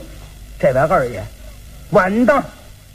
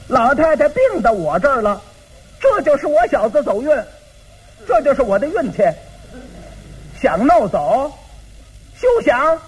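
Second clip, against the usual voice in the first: defiant refusal; 5 semitones higher than usual. Acted. Second brother refuses to give mother up.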